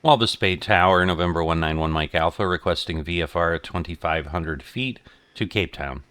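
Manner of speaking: loud, brisk radio call; pilot over the radio. Real, not acted. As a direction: call the tower again, crisp and fast. Repeated radio call to tower.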